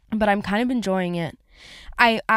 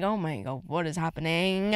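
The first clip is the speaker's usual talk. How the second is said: worked up; 4 semitones lower, 5 dB quieter than usual. Retold or imitated. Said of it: "I'm starting to get a little bit worked up".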